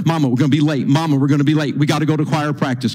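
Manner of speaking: imitated insistent nag, rattled off; pestering kid. Boy bugging his mama about being late, pestering. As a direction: keep badgering without a break. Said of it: "He bugs her".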